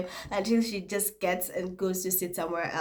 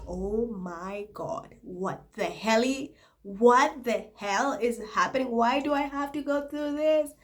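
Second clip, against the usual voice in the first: exasperated inner voice; 5 semitones higher than usual. Retold or imitated. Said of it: "King Julian vibe".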